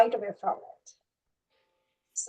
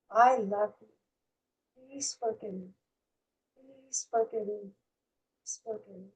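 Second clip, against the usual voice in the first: slow, hushed inward recitation; slowly, from inside; 8 dB quieter than usual. Shown as a demonstration. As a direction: murmur each phrase softly with long pauses. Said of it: "like, slowly".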